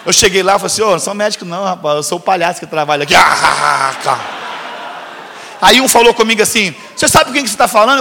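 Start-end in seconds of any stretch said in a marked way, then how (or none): 0.8-3.1 laughing reveal. Retold or imitated. Chaplain tells the students he is only the clown, half shouting. 3.2-5.6 low shouted burst of laughter; big laugh. Real, not acted. Laugh after punchline. 6.9-8.0 higher, indignant do-you-know-who-I-am; arrogant challenge. Retold or imitated. Medical resident demanding respect from the chaplain, indignant and higher.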